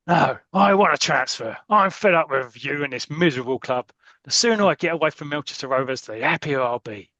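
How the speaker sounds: hammed-up fed-up footballer; angry Blackie. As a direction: storm through a transfer demand. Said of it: "this is angry Blackie".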